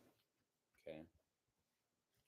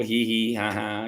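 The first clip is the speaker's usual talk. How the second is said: light mock giggle, a touch higher; imitated baby giggle; 3 semitones higher than usual. Imitating the baby daughter's giggle, mock giggle. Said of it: "she used to giggle".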